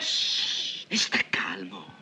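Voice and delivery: soft, low, calming murmur; hushing. Acted. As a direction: hush him down, keeping it low. Hushing an angry man. (zittire a voce bassa)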